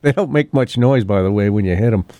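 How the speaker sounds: real chuckles breaking up the words; laughing. Real, not acted. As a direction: talk on while trying not to laugh. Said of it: "I don't know why I'm laughing".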